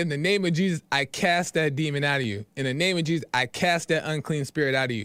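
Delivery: ordinary delivery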